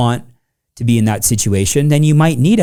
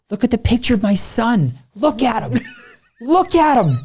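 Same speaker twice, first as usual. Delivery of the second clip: hammed-up weepy voice, much higher and slower; mock crying. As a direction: fake tears, overplayed whiny sob. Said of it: "I'm pretending to cry".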